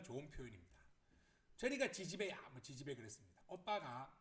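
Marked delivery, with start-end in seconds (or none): 1.6-2.5 loud, mildly scornful shooing; dismissive jibe. Acted. Sibling telling sister to go away, dismissive. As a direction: shoo someone off rudely, half-acted.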